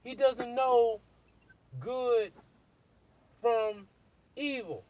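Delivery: high, loud, slow insistence; emphatic exclaim. Real, not acted. Telling the listener Adam doesn't know, loud and high. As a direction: hammer home that he doesn't know.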